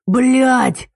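громкий высокий вопль боли; заори от боли. A narrator's reading. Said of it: "завопил он". (вопль Тимы, раненого в лицо)

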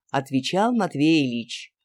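ordinary delivery, nothing marked

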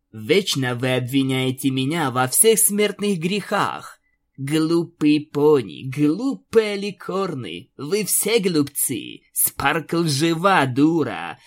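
slow, contemptuous spite; spiteful. Acted. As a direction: drag out every insult with scorn. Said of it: "злобно произнесла Аланис". (злобно, с презрением)

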